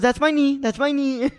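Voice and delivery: high, indignant repeat; lightly voiced annoyed woman; mock annoyed complaint. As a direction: imitate the annoyed mom. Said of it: "He goes".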